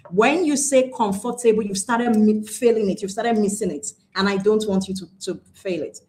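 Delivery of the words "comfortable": "comfortable" said com-for-ta-ble, with a full FOR; four-syllable comfortable. Shown as a demonstration. Teacher warning learners of the error, "comfortable" as com-for-ta-ble. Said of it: "making it into four syllables".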